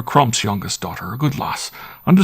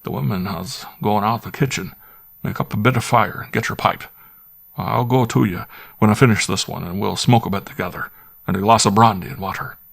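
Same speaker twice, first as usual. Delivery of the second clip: squire pressing his butler, higher and louder, edgy; half-angry squire; 3 semitones higher, 4 dB louder than usual. Acted. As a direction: grumble and coax by turns, a country squire with a temper. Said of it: "but not quite so angrily as before".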